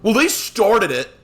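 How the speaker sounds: high, slow mock-kid protest; childish blame. Preacher voicing Samson's childish mentality, high petulant protest. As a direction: drag it out like a child passing blame. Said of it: "And what is his mentality?".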